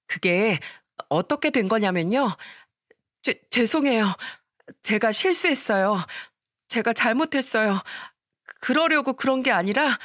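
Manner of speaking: stammering, desperate apology; panicked pleading. Acted. Daughter-in-law begging her mother-in-law, flustered and pleading. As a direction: beg forgiveness in a flustered panic.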